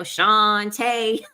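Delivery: "Shantae" with a drawn-out first syllable; ghetto pronunciation. Shown as a demonstration. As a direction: turn "Shantae" ghetto, stretching it out. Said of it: "you could turn it ghetto".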